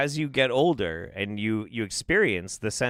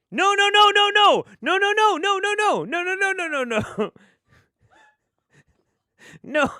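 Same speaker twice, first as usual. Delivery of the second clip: high, loud string of no through laughter; high laughing no; 5 dB louder than usual. Real, not acted. Misunderstood remark, protesting through high laughter. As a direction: protest while cracking up.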